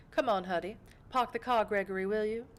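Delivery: lightly voiced genteel lady to her driver; breezy order in a refined patron's voice; a hint of mock-British gentility; elegant vampire patron.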